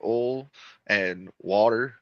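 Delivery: "oil" squashed into one syllable, like "ole"; regional "oil". Shown as a demonstration. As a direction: say "oil and water" slowly, flattening "oil" to "ole". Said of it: "I still can't say oil".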